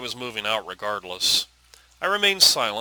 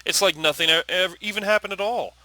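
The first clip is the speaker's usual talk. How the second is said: high-pitched, heated accusation; raised angry voice; 8 semitones higher than usual. Acted. Daughter accusing father of ignoring grandfather's death, voice raised. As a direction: raise your voice in hurt outrage. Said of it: "Do not raise your voice at me".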